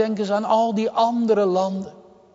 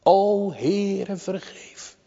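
imploring prayer, dying away at the end; solemn voiced supplication; urgent intercession; 3 semitones higher, much slower than usual. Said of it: "die dringende voorbede".

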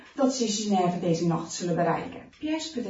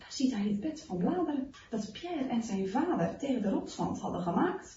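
ordinary delivery

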